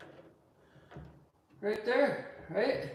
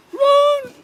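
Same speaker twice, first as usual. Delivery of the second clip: a sudden high yelled command; high shout; 13 dB louder than usual. Real, not acted. Calling the dogs to run, a high yell.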